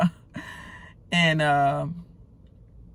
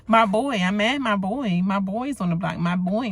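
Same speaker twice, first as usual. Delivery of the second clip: mock repetition; 4 semitones higher than usual. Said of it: "she keeps saying".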